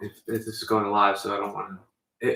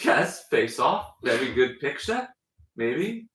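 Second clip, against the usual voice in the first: put-on mid-Atlantic accent; slower than usual. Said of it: "mid-Atlantic accent".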